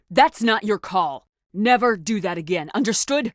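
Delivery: slow, hard, clipped-off warning; stern reprimand. Acted. Commander scolds a subordinate, stern and slow. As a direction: lay down the law, slowly.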